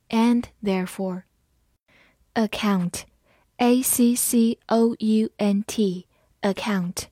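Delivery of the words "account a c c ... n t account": very slow letter-by-letter spelling; slow spelled-out word. Shown as a demonstration. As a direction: spell it out slowly for learners. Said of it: "字母A发短音呃".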